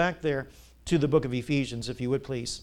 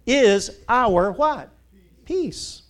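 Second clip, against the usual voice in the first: higher and louder, lifting to a peak on Peace; rising call to congregation; 7 semitones higher, 8 dB louder, much slower than usual. Acted. Preacher coaxing the congregation to answer, climbing high. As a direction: pull the answer out of the crowd.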